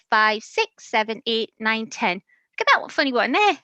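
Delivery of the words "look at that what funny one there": excited. Real, not acted. Showing toddler the book.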